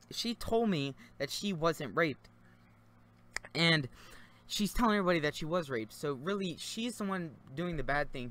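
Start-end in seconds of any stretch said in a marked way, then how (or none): 3.5-3.9 burp. Real, not acted. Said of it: "So I'm sorry about the burp".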